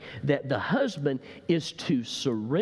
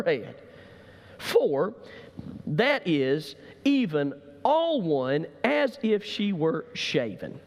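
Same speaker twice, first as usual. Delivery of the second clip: reading the verse aloud with lift; formal scripture read, slowing at the end; 3 semitones higher than usual. Acted. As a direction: read the King James text out.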